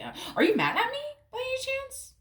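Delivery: high, breathless whispered question; timid whisper. Retold or imitated. Partner timidly whispers asking if Virgo is mad. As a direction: whisper it nervously, afraid of the answer. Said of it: "ask you, like".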